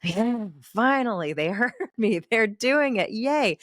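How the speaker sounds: relieved parent's silent cheer; mock inner cheer. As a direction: celebrate in your head. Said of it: "You probably think".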